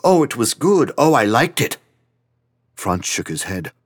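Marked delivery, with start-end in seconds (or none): 0.0-1.8 higher, lightly mocking the bland fans; a hint of a sing-song polite fan. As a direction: parody their polite shrug. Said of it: "they nod politely and they tell me".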